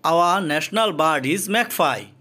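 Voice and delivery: Our national bird is magpie, each word drawn out very slowly; slow demo reading. Shown as a demonstration. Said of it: "এখানে আওয়া, আওয়ার হয়নি কেন". (খুব ধীরে ধীরে, শব্দ আলাদা করে পড়া)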